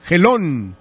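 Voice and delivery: "Gelón" with a stressed O and final N; stress on final syllable. Shown as a demonstration. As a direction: demonstrate "Gelón", leaning on the O and finishing on N. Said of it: "con acento en la O y la N al último".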